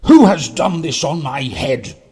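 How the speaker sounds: loud, demanding little mole; indignant cry. A narrator's reading. Little mole demanding who did it, indignant loud cry. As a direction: call out the question in outrage. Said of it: "cried the little mole".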